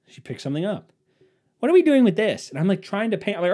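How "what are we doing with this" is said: higher, louder curious wife; wife picking things up while he paints, higher mock voice. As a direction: chirp it like a nosy question. Wife distracting him.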